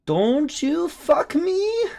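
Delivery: very high, drawn-out mock Asian accent. Trader playing up the Asia session, mock Asian accent. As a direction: put on an Asian accent, stretched out in a high squeal. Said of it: "do it in an Asia accent".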